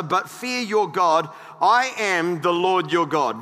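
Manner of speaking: emphatic, projected pulpit reading; measured Bible reading with weighted key words; scripture reading. Acted. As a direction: read the verses out to a congregation. Reads scripture aloud to congregation.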